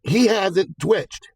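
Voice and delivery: he hasn't twitched drawn out slowly and high; slow stressed he hasn't twitched; slow emphasis. Retold or imitated. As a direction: stretch each word of he hasn't twitched. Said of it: "She's like".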